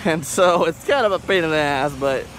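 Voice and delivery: muffled behind a mask; talking through a cloth mask; through a face mask. Real, not acted. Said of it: "Sorry I did it with a mask over my face".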